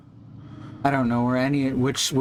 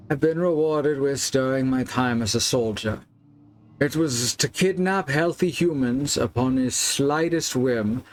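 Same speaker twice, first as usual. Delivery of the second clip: a loosely faked Scottish accent; bad Scottish accent. Player reading a nobleman's confession, drifting Scottish accent. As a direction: read the letter in a wandering Scottish accent. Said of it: "Now I'm going Scottish".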